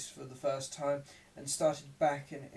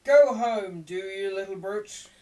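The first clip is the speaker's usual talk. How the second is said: high, loud berating; scolding woman; 6 semitones higher, 12 dB louder than usual. A narrator's reading. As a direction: order the boy home, much higher and louder. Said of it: "said another".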